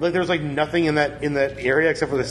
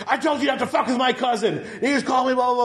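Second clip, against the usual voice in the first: high-pitched impression of an angry woman; mock screaming; 10 semitones higher than usual. Guest retells her screaming about a cousin, mock screaming. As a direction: screech her tirade in imitation, without full volume. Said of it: "she just starts screaming at the woman again".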